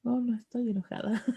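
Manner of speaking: denial with a laugh running through it. Retold or imitated. Speaker playing herself, denying anger through laughter. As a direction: laugh off the accusation. Laughing reply to the imitated accusation.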